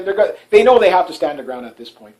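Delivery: ordinary talk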